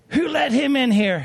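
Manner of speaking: hissing like a cat. Telling how a woman reacts when he walks in the door: imitating a cat-like hiss. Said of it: "Hissing like a cat".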